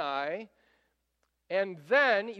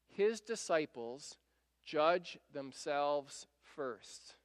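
slow, weighty stress on every word; drawn-out preacher emphasis; 4 semitones lower, 4 dB quieter, much slower than usual. Acted. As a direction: lean hard on the point, slowly. Key point of the sermon.

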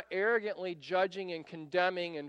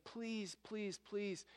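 softer, begging for mercy; a hushed, mild mock plea; pleading; 3 semitones higher, 7 dB quieter than usual. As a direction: plead quietly like a desperate debtor. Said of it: "starts pleading and begging for mercy".

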